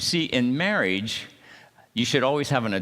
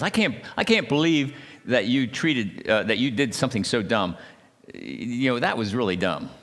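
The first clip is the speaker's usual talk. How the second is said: mild condescending scold; 2 semitones higher than usual. Shown as a demonstration. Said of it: "this person says".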